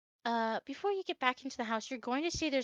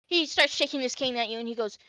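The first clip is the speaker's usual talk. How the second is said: ordinary talk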